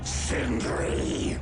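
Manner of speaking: a loud, high call of the servant's name; summoning shout. Acted. Lord calling his servant to him, loud summons. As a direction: bark the name across the hall.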